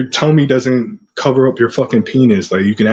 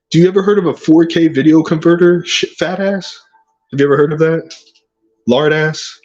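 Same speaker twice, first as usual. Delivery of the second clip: taunting; 5 semitones higher than usual. Acted. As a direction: jeer at him. Taunting rival about video.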